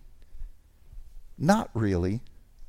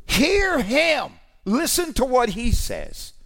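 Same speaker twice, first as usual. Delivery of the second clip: booming, much higher proclamation from the cloud; commanding divine voice, raised high; voice of God; 9 semitones higher, slower than usual. Retold or imitated. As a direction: proclaim it as the voice from heaven. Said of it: "the Lord's voice came through the cloud".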